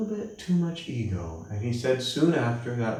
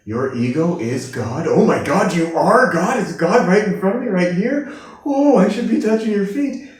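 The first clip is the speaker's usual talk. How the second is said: high, loud and breathless with awe; starstruck, ready to bow down; awestruck gushing; 9 semitones higher, 9 dB louder than usual. Retold or imitated. Lady stunned to be facing God, high loud awe.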